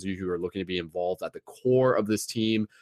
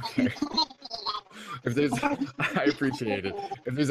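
chipmunk voice; 13 semitones higher than usual. Real, not acted. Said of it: "are you aware that you sound like a chipmunk".

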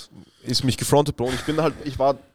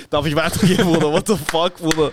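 mock pleading servant; 4 semitones higher than usual. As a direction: beg the master, hammed-up. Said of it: "hab weißen Dress an und sag". (Sklave fleht den Master übertrieben an)

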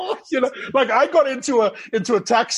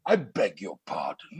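much lower, softer mock-offended reply; dropped voice; 13 semitones lower, 5 dB quieter than usual. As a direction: drop the voice low as if deeply insulted. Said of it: "of course, dropped my voice".

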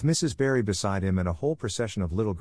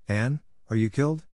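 restrained, higher-pitched cry of alarm; shrieking; 4 semitones higher than usual. A narrator's reading. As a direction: ask anxiously, without really shrieking. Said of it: "shrieked Diana".

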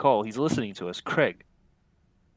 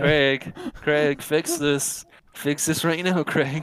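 mock panicked demand; 3 semitones higher, 5 dB louder, slower than usual. Pleading to Craig in game.

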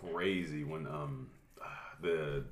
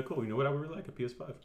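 mock high voice; 9 semitones higher than usual. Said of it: "Be like".

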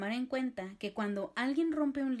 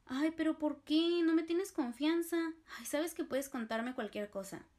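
pleading friend; 5 semitones higher than usual. Shown as a demonstration. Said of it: "esta persona te dice".

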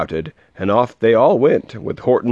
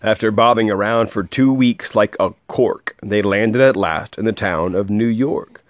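lively, rhythmic read-aloud; storybook voice with a measured bounce; story narration. A narrator's reading. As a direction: read a rhyming picture book to a child.

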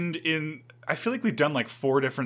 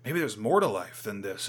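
wistful; 3 semitones lower, 6 dB quieter than usual. Retold or imitated. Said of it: "the guy's like".

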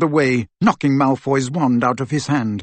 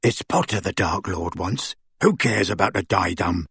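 low, quieter thug voice; surly henchman; 6 semitones lower, 4 dB quieter than usual. A narrator's reading. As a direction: brush it off in a deep voice. Crabbe's henchman voice dismisses the diadem.

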